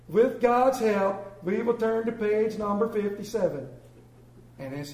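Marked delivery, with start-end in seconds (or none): 0.1-3.7 exasperated pastor. Retold or imitated. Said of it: "he says".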